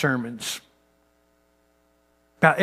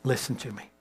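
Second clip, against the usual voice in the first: soft, hushed preacher line; 7 dB quieter than usual. Retold or imitated. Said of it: "was gonna be much softer".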